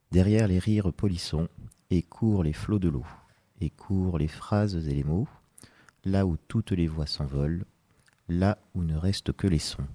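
measured poetry recital with pauses after each verse; poem reading. Acted. Guest reads his short poem on the radio, measured poem reading. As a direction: read each verse evenly, letting it settle.

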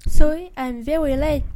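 breathless late-arrival excuse; loud apology. Acted. Late pupil bursts in apologizing.

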